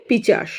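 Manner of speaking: পিচাস said with চ in the middle and স at the end; everyday slip turning পিশাচ into পিচাস; sound swap. Shown as a demonstration. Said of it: "পিশাচ না বলে পিচাস".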